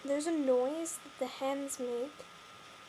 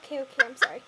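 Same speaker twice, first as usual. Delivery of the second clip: louder, calling over the hens; raised voice over clucking; 19 dB louder, faster than usual. Real, not acted. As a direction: call over the flock's din. Shouting over noisy hens.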